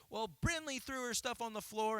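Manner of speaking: put-on whiny child. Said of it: "And he's like".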